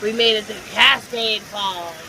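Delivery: mock dramatic trailer voice; grand adventure narration; epic narrator. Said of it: "Nah, I'm kidding".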